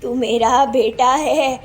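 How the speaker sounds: put-on mild tearful old mother; hurt pleading mother. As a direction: plead with your son, heartbroken.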